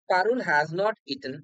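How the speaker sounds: very slow, each word spaced out; slow dictation. Shown as a demonstration. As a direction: read the example slowly for students. Teacher reads example sentence. (খুব ধীরে উদাহরণ পড়া)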